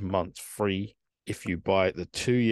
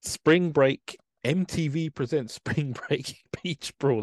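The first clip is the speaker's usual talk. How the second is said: announcer hype; 6 semitones higher, slower than usual. Acted. Hyping up the show title.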